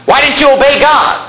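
high-pitched, indignant imitation of yelling; mock scolding yell. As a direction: imitate the prophet telling him off, pitched well up. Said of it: "then he yells at him and says".

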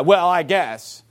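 drawn-out, reluctant concession; grudging acceptance. Acted. Preacher mimicking someone who forgives without meekness, grudging. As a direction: drag it out as if giving in reluctantly. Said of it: "No, spirit of meekness".

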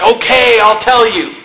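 mild worn-down surrender; mock giving in. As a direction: imitate a nagged husband finally caving. Worn-down husband gives in, retold.

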